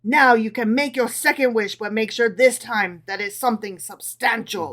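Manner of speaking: impatient. Acted. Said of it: "exclaimed Napoleon impatiently".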